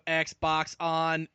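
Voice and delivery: flat, even robot monotone. Shown as a demonstration. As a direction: say it like a machine would. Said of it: "I have to do robot voice".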